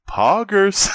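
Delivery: high, hyped streamer shout; streamer catchphrase. Retold or imitated. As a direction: sell it like a gamer to camera. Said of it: "turn to the camera and go".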